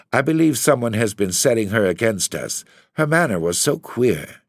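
Laura pouring out her worry to her husband; anxious young wife voiced high; upset young wife.

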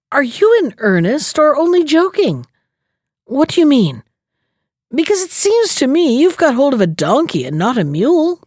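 a hint of a cunning trickster needling the old man; sly rogue. Rogue questions Simon.

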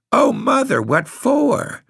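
high, breathless alarmed "Oh, Mother"; a girl's startled gasp. A narrator's reading. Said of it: "gasped Nanny".

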